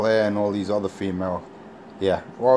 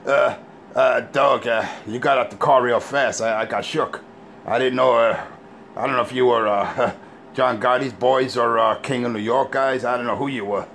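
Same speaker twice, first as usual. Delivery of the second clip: mock nervous stammer. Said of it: "voicing Richie stammering excuse".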